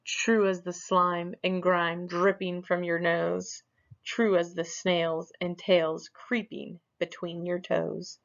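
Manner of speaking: lightly voiced magic mirror; a hint of an eerie mirror intoning; mirror's voice. The mirror answers Smug with a lightly voiced chant.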